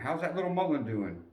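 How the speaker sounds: light caring lady's voice, lifted high; sergeant's wife. Retold or imitated. Sergeant's wife checking on the young private, high and sweet. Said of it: "She would check on me".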